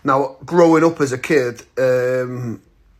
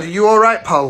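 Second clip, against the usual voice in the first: mildly confrontational, higher and louder; pitched-up, louder retold question; acted challenge; 7 semitones higher, 5 dB louder than usual. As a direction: call over to a stranger as a light challenge. Confronting a man staring at him.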